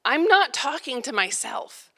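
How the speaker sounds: slow, deliberate parental reproach; a mild, weary scolding; exasperated parent phrase. Retold or imitated. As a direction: spell it out to kids who won't listen. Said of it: "the phrase that surprises me how often I say".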